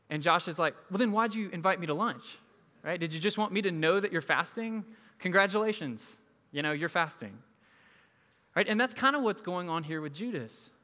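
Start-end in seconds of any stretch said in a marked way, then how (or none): 0.9-7.4 higher, louder incredulous retort; exasperated sarcasm. Retold or imitated. Pastor needling the fasting guy at lunch, higher and louder sarcasm. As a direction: needle him, mock congratulations.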